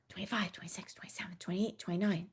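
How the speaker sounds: unvoiced whispered counting; counting under breath. Shown as a demonstration. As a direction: whisper each number softly. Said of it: "Let's whisper".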